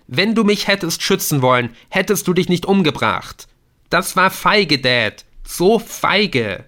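high, loud, near-breaking accusation; furious son. Acted. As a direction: spit out the word cowardly. Adrian calls his father cowardly. (wütender, fast brechender Vorwurf)

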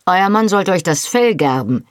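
a hint of a stern man scolding from the dark; stern indignant man. A narrator's reading. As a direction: scold her like a stern elder. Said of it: "empfahl empört eine gestrenge Stimme".

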